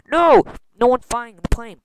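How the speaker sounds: high, loud shout of alarm; alarmed cry. Acted. Realizing no one's flying the plane, alarmed. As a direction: cry out, then stretch the bad news.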